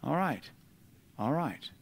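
retold relief, gently calming down; comforted acceptance. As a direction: say it quietly, anger put out. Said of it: "it brought a comfort to me".

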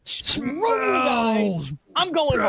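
cartoon kid impression. Quoting a cartoon line if they lose.

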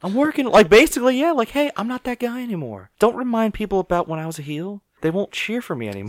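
high, strained imitation of a wrestler; mock pleading. Wrestler begging not to be reminded he was a heel, mock pleading. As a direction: plead in a comically high voice, easing down at the end. Voicing Seth pleading with Dean.

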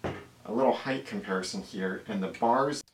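distant, echoey room sound with hiss; recorded far from the mic in a bare room; echoey camera mic. Real, not acted. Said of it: "It's echoey, there's a lot of hiss".

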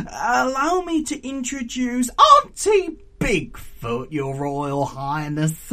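high, strained formal introduction; slightly desperate. A narrator's reading. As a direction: force out a polite introduction in a high voice. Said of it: "slightly desperately".

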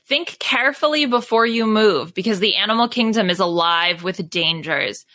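measured, ominous read-aloud of the game's warning; storybook narration. Acted. Narrator warning the players, in an ominous read-aloud. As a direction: set the stakes like a gamebook narrator. Reads game book intro.

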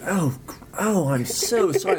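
high, drawn-out retold apology; hammed-up gushing apology; mock apologetic. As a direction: imitate a mortified driver, pitched well up. Retold driver apologizing profusely to cop.

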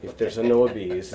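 put-on slow Italian accent, like the Pope; a mock Italian accent. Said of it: "that's my, like, Italian accent for".

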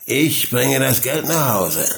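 put-on drunken slurred father voice; slurring. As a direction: slur the words like a drunk. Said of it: "lallte er".

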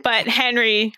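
hesitant, slowed-down nervous read. Real, not acted. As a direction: force the words out shyly. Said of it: "You sounded so nervous".

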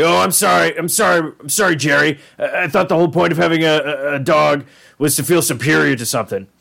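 a touch of put-on sorry; mock apology. Rick needles Jerry about the dog, lightly sarcastic apology. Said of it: "He's like".

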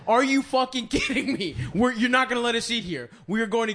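retold indignant shouting. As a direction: re-enact an indignant protest to a waiter. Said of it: "we're shouting".

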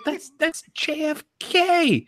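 very high, drawn-out disbelief; high slow exasperated self-quote; retold incredulous reply. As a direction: squeak it out slowly, mock incredulous. Retelling his reply to the girl.

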